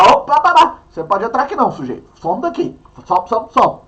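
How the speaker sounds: a touch of a gruff guard shooing people off; lightly voiced guard saying get lost; mock border guard. Teacher playing a guard turning migrants away, lightly gruff.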